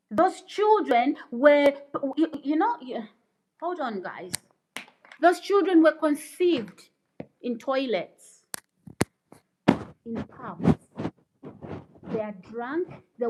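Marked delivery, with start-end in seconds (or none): 0.1-10.7 indignant rant. Real, not acted. Streamer condemning trolls' upbringing, loud indignation. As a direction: build outrage, then break off and restart. Ranting at devil-worshipper commenters.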